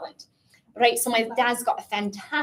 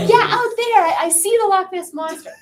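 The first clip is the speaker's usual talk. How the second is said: a hint of grandma, higher and louder, laughing through it; lightly voiced old grandma, higher and louder; imitating grandma; 8 semitones higher, 6 dB louder than usual. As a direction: playfully mimic a half-blind granny sure she sees Nessie. Half-blind grandma sighting Nessie.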